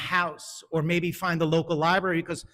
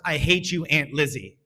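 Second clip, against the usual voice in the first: put-on angry child. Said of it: "She got the first".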